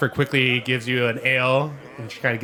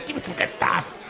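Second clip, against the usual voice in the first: hushed whisper, softer; conspiratorial whisper; 5 semitones higher, 5 dB quieter than usual. Acted. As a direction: lean in and whisper the request. Gilly drops to a whisper.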